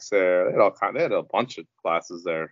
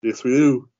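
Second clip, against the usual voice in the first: higher, louder playful agreement; emphatic agreement; 5 semitones higher, 4 dB louder than usual. Real, not acted. Host agreeing with his co-host, emphatic and pitched up. Playful echo before signing off.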